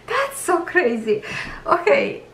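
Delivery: high giggly laugh breaking into words; laughing at her own goosebumps; emotional laughter. Real, not acted. Painter laughing, moved by the canvas, giggling high. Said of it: "I'm getting a little bit emotional".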